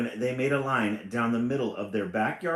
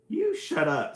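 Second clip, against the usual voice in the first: a loud, higher mock snap; snapped; 7 semitones higher, 6 dB louder than usual. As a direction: bite it off fast at him. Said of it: "snapped sister".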